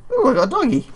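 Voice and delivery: high, loud burst of delight; delighted squeal. Real, not acted. Gamer thrilled at gaining a pet dog, delighted squeal. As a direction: squeal with joy over the new dog.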